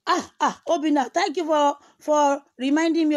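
high, loud, slow thanks; excited thanks. Real, not acted. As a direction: call out the thanks with glee.

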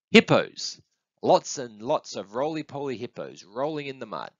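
high burst on the first word; gleefully picture the animals; excited little one. Acted. Little one excited by own guess.

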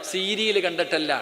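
ordinary delivery

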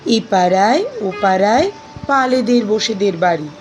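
measured, expressive verse reading with deliberate pauses; poem recitation. Acted. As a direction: recite the poem phrase by phrase, lingering on words.

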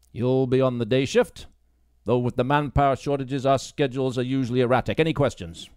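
dismissive police sergeant lecturing a new recruit; gruff sergeant. Acted. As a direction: talk down to her as the stern boss. Baines briefs Grace.

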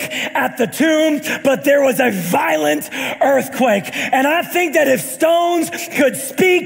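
rising, ringing preacher's cadence over music; stretched, booming sermon delivery; full-force preaching. Acted. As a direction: preach it to the congregation. Preaching the Easter message.

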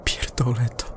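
defeated whisper; whispering astronaut, done with it all. Acted. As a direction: breathe it out, giving up. Astronaut gives up.

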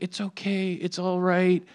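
soft imitated nursing; mock soothing. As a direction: gently play at comforting a patient. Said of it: "she nurses Cody through".

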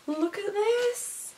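high, slow, almost crying with joy; tearful delight. Real, not acted. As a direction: show it off, overcome with happiness. Moved by the gift.

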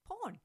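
"Porn" with no R, pitched high; high, demonstrative "Porn", R left silent; non-rhotic "pawn". Shown as a demonstration. British speaker showing how she says pawn, non-rhotic vowel. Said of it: "talking about P A W N".

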